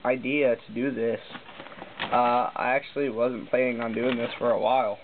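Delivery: talking while crunching chips; words around a mouthful of chips. Real, not acted. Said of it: "Sorry, I'm eating chips right now".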